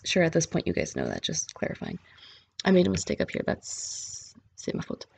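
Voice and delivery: dropped to a whisper, an aside to herself; muttered aside. Real, not acted. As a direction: mutter it under your breath, half apologizing. Muttered aside about own mistake. (teacher quietly admitting her own mistake, whispered)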